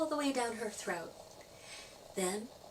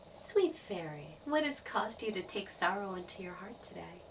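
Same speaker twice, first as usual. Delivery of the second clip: lightly voiced Grandfather Tree. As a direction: gently ask a sad little one what's wrong. Old tree comforts crying fairy.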